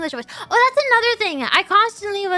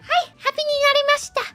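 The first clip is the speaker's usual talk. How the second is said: ride robot voice; 8 semitones higher, faster than usual. Retold or imitated. Japanese ride voice quoted.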